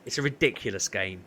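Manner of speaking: ordinary talk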